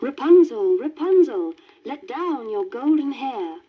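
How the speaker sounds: loud call up a tower. Acted. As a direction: call out to the window above. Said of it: "heard her call out".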